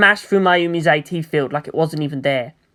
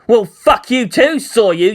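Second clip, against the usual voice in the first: slow, loud snarling comeback; snarling retort; 5 semitones higher, 4 dB louder, slower than usual. Acted. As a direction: snarl it back. Unit one roars back.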